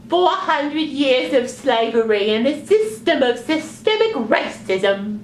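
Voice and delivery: high squeaky puppet voice; earnest little puppet; sock puppet voice. Acted. Puppet answers.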